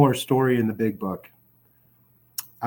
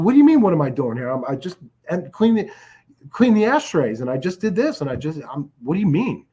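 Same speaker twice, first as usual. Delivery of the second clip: fast, rising indignant protest, pitched up on the ashtrays; defensive protest; 2 semitones higher than usual. Retold or imitated. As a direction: rattle off excuses, caught out. Defensive retort to the friend.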